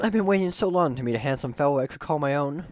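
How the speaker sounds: lightly voiced yearning friend; Miriam. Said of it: "switch to my slightly higher pitched voice when I'm doing her".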